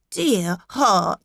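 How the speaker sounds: a touch of gentle surprise; lightly taken aback; mild surprise. Acted. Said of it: "in mild surprise".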